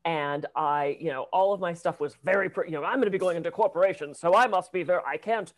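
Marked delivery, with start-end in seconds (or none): 2.8-5.5 mock stilted corporate self. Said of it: "very stilted in my speech".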